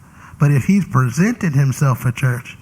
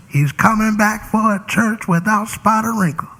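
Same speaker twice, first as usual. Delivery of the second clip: quoted misquote; 8 semitones higher than usual. Retold or imitated. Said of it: "You ever heard this?".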